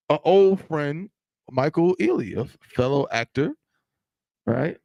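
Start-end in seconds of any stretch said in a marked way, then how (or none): 0.1-1.1 slow dramatic build-up. Acted. Telling a friend the gossip, slow and teasing. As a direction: stretch out "an old friend" slowly for suspense.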